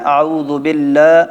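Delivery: slow mock recitation with wrong joins; mock careless recitation; imitating common mistakes. Shown as a demonstration. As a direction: show how people mangle it. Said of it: "اکثر لوگ کیا کرتے ہیں".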